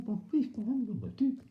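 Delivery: high mock toothless "boop boop" mumble. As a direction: imitate a man with no teeth. Toothless husband mumbling again.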